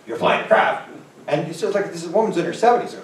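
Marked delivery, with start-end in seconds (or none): 0.1-0.9 disbelieving question, raised in pitch; first amazed take of you're flying the craft; surprised question. Retold or imitated. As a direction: ask it amazed. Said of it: "I went".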